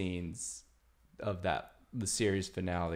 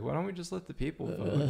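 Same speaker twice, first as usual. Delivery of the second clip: higher-pitched naive proposal; pitched-up mock-hopeful question; imitated suggestion; 9 semitones higher, faster than usual. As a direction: act out someone floating an idea. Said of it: "somebody had suggested".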